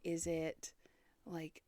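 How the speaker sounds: whispered and low; spooky whisper. Pretend. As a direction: hush it like a ghost story. Musing on the paranormal eerily.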